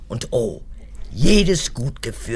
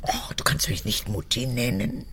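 whisper; 6 dB quieter than usual. Acted. Mother mocks daughter's refusal.

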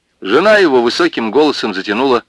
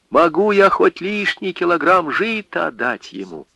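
higher, earnest; voiced widow; 6 semitones higher than usual. Widow speaking to the women about Михаил. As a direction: honour him with feeling.

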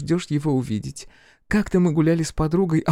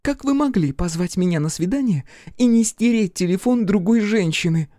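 higher-pitched, hurt reproach; indignant; 3 semitones higher than usual. Acted. Fiona reproaches Crow over another woman's number, indignant. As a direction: scold him with wounded indignation. Jealous quarrel while scrubbing his hand.

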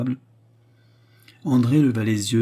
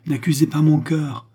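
higher, sharp protest; quick, lively; 6 semitones higher, 4 dB louder than usual. A narrator's reading. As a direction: fire the denial back quickly. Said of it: "dit vivement André".

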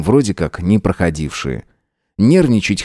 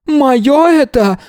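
very high, slow, louder squeal; shriek; 4 dB louder, much slower than usual. A narrator's reading. Hostess squealing to keep the stolen curtains, very high and slow. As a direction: shriek to claim it. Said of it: "взвизгнула хозяйка".

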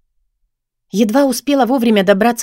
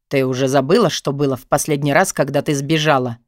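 put-on displeased boyfriend; 6 semitones lower than usual. A narrator's reading. Displeased boyfriend voiced low.

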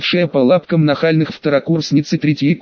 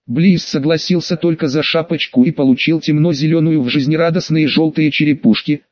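ordinary delivery, nothing marked

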